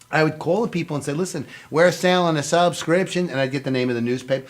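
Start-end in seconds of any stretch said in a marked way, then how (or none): 1.1-3.3 slow, drawn-out fake Southern accent; hammed-up Southern phone-sales voice; bad Southern accent. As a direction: put on a bad down-south drawl. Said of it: "That's my bud accent".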